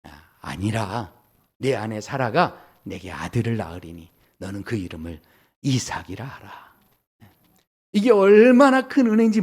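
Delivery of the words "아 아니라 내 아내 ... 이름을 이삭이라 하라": low, soft, solemn scripture voice; gentle pronouncement, slowing at start and close; God speaking. Acted. God promising Abraham a son named Isaac, low and solemn. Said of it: "하나님께서 이르시되".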